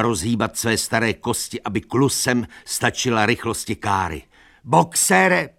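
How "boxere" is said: high, loud call; shout. A narrator's reading. Lupina calling after Boxer, high loud call. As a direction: cry his name after the cart. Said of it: "křičela".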